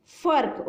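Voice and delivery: फर्क said carefully, r clearly heard; r sound in फर्क shown. Shown as a demonstration. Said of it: "फ के बाद र की साउंड आ रही है".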